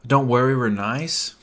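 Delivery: whispered sarcastic echo of the wife; mocking whisper. Retelling the churchgoers' promise, mocking whisper. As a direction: hiss it back with scorn. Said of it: "it's the biggest lie ever".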